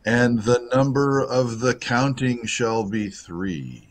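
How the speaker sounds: slow, solemn mock-biblical recitation; mock scripture reading. Announcing the giveaway number by film quote, mock scripture. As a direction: intone it like holy scripture, drawn out.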